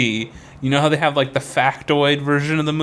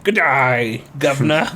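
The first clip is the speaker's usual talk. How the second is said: Aussie accent drifting into mock British; Australian slipping into British. Contestant celebrating, Australian accent slipping into British. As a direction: start Australian, slide into British by mistake. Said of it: "That's British".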